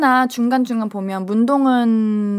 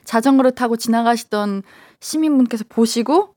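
ordinary talk, nothing marked

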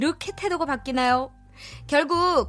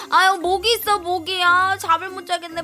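annoyed whining; 5 semitones higher than usual. Acted. Wife begging husband.

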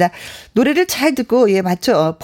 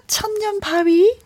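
a song title stretched out high; drawn-out song title, announcer style; song title announcement; 10 semitones higher, slower than usual. Shown as a demonstration. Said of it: "라이브로 듣습니다".

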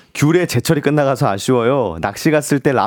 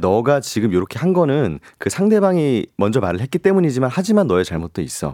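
lower, measured mock lecture; logical reasoned scolding; 3 semitones lower than usual. Shown as a demonstration. Voice actor advising a friend who is at fault, logically reasoned lecture. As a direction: lay out the fault point by point, mildly. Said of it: "논리정연하게 또".

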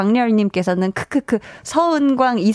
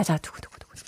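whispered drumroll; 7 semitones lower, 13 dB quieter than usual. Acted. Drumroll imitation.

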